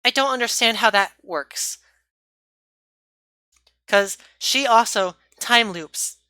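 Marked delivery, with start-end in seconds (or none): 3.9-6.2 words interrupted by a burp. Real, not acted. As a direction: talk through a small burp. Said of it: "Excuse me, I'm burping".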